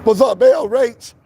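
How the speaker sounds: losing his voice, strained and hoarse. Real, not acted. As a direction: talk through a worn-out hoarse voice. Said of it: "Losing my voice".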